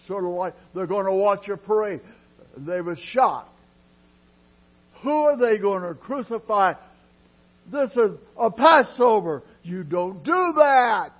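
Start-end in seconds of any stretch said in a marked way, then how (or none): 5.0-11.1 preaching shout. Real, not acted. Preacher building to a cry.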